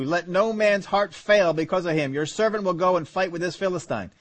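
measured, steady Bible reading; scripture reading. Acted. Preacher reading Saul and David to the congregation. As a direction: read the verses to the church.

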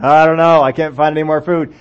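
worried brother with no answer; a brother at a loss; fretful brother. Acted. Brothers voiced worrying about food.

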